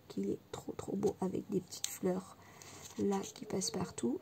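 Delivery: breathy whisper of delight; hushed admiration. Real, not acted. Crafter whispering her admiration of the stamp to viewers. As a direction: whisper it like a treasured find.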